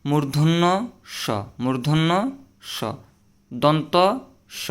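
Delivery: মূর্ধন্য স said clearly, rising; মূর্ধন্য স, carefully; correct pronunciation. Shown as a demonstration. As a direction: model মূর্ধন্য স for the class. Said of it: "সঠিক উচ্চারণ হবে যে".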